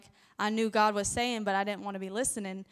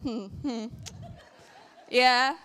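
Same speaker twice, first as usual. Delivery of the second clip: louder, slow smug laugh then the line; teasing husband; 2 semitones higher, 4 dB louder, slower than usual. Retold or imitated. Husband gloating at his wife, chuckling and slow. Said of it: "And he said".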